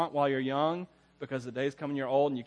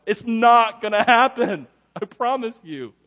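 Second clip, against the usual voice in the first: slow and louder, each word punched; emphatic; 6 semitones higher, 10 dB louder, slower than usual. Real, not acted. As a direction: promise it firmly. Emphatic promise to audience.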